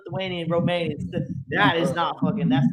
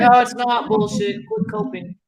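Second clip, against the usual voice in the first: much higher, slow mocking tease; jeering taunt; 13 semitones higher, slower than usual. Real, not acted. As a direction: rub it in with a jeer. Mocking friend in argument.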